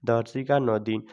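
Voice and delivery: दिन with a quick, unstretched i; short vowel. Shown as a demonstration. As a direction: spell it out, ending on a short दिन. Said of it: "छोटी ई की मात्रा का उच्चारण short होता है".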